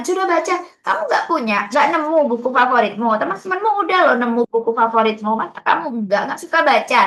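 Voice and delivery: mock guilt-trip a child who has no favourite book; nagging librarian. (pustakawan yang mengomeli anak dengan nada tinggi)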